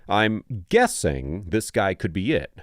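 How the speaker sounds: slow, deliberate quoted line; quoting slowly. Shown as a demonstration. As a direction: read the officer's words out slowly and pointedly. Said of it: "and I'm quoting".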